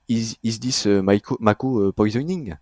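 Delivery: mock English with a French accent, lightly; half-hearted English accent. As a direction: quote it in self-mocking English. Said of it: "avec mon superbe accent".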